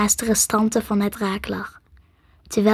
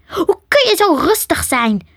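higher-pitched, astonished question; incredulous question; 7 semitones higher, 4 dB louder than usual. A narrator's reading. Nick to calm Sam while danger looms, incredulous. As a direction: ask it in raised, disbelieving pitch.

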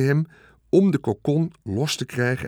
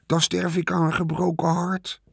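higher, hammed-up mock heartbreak; mocking imitation; 6 semitones higher than usual. The rat mocking Wilbur's words back at him, sarcastic mimicry. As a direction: parrot the pig's line sarcastically. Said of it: "deed hij Wilbur na".

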